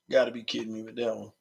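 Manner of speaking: fast unvoiced whisper. Real, not acted. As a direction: breathe it under your breath. Muttered aside to self.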